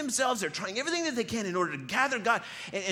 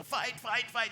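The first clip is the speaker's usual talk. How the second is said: higher-pitched schoolyard chant at usual volume; mock fight chant, pitched up; high school crowd; 6 semitones higher, slower than usual. Recalling high-schoolers gathering round a fight, mock chant. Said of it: "when you were in high school and everyone's".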